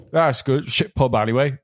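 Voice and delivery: lightly voiced grumbling Cornish local; Cornish accent. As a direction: mutter it like a Cornish pub regular. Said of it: "Uh, like that".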